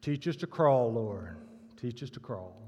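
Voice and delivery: earnest plea from a deep-voiced churchgoer. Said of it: "a booming, deep voice said".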